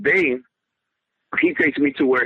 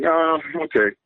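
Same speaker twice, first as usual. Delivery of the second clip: casual, higher-pitched mock nonchalance; lollygagging, unbothered; 6 semitones higher than usual. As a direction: act out an unconcerned, dawdling reply. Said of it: "And I'm lollygagging".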